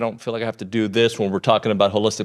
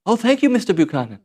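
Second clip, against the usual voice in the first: high-pitched put-on Asian accent; mock Asian accent; 7 semitones higher than usual. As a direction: play a grateful customer with a badly faked Asian accent. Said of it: "I changed her accent now".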